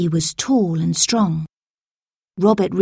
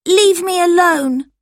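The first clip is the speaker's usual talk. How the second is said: higher, louder scared plea; frightened protest; 11 semitones higher, 5 dB louder than usual. A narrator's reading. Scared boy pleads with the pickpockets, high and pleading. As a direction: push them off in fear. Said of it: "Robert said".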